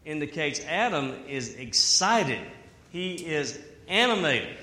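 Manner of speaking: usual speaking voice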